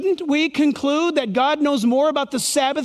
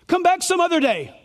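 snooty dismissive ruler, pitched higher; mocking ruler; 6 semitones higher than usual. Preacher mocking the synagogue ruler, sneering. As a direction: sneer it like a proud official.

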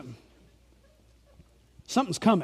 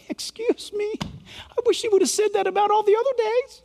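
sarcastic; 10 semitones higher than usual. Real, not acted. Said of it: "In my sarcasm".

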